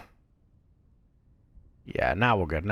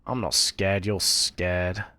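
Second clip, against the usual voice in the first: false bravado; 4 semitones lower, slower than usual. Real, not acted. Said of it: "Okay, I'm a little bit scared".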